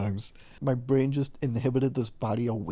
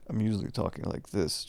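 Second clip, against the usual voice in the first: low-key, unprojected, quicker talk; usual speaking voice; 3 semitones lower, 6 dB quieter than usual. Shown as a demonstration. Vlogger showing how they talk in calls, low-key. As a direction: let the effort drop out of the voice. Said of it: "this is how I usually talk".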